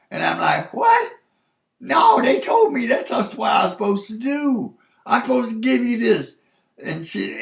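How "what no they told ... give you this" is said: loud, high, outraged what; shocked protest. Retold or imitated. Husband protesting to his wife in labour, loud and shocked. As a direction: yelp it in disbelief, then argue.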